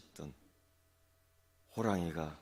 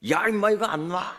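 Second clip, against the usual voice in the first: much higher and louder, a furious bellow; fierce shout; 12 semitones higher, 12 dB louder than usual. Acted. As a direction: roar it to scare the tiger off. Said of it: "소리를 지르는데". (호랑이에게 겁주려는 토끼의 고함)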